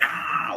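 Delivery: long, high mock "aah"; half-hearted wail from the psychic realm; mock psychic scream. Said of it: "hearing the psychic screams".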